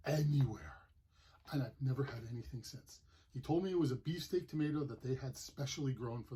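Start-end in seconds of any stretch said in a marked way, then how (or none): 0.1-0.7 hushed awe after the first bite; awed whisper. Real, not acted. Awe at the best tomato.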